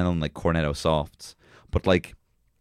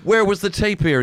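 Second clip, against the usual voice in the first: higher, slow, lightly hammed headline read; mock news headline; 9 semitones higher, 4 dB louder, much slower than usual. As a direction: announce it like a tabloid headline.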